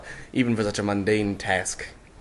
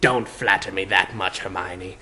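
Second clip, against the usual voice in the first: cooed; 3 semitones lower than usual. Acted. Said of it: "the hat cooed".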